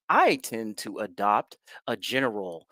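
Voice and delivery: mock anchorman in general American; general American accent. Shown as a demonstration. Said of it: "I kinda sound like an anchor man".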